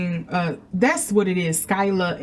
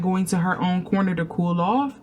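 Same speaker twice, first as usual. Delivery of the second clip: normal talking voice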